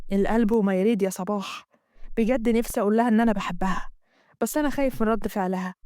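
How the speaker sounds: Amgad. Acted. Amgad voiced in the story.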